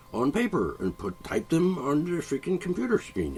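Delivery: put-on half-unconscious Indian accent, unhurried; slipping into an Indian accent. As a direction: let an Indian accent creep in as you explain. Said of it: "Indian accent there for a minute".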